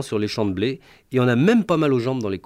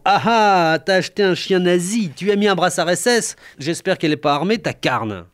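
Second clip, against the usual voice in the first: sneering; 5 semitones higher than usual. Retold or imitated. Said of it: "il m'a dit en ricanant".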